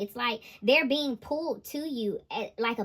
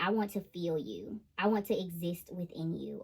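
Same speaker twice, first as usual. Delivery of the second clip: soft sultry voice; 5 semitones lower, 6 dB quieter than usual. Retold or imitated. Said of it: "I'm literally hearing, like".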